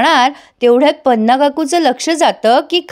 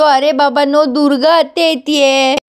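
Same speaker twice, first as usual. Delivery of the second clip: retold call-out shout. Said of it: "कुकी जोरात ओरडतो".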